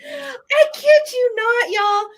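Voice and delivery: high, slow, laughing and crying out. Real, not acted. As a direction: say it through helpless laughter. Laughing through the reading.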